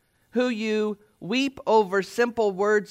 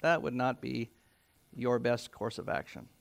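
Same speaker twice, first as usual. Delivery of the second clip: gentle correction; 8 semitones lower, 10 dB quieter, faster than usual. Retold or imitated. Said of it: "you should very well say".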